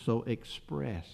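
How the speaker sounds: "express" said slowly and set apart; stress on express. Shown as a demonstration. Preacher pointing out a key word, slow stress on "express". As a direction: weigh the word "express" softly. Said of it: "I put some emphasis on that word express".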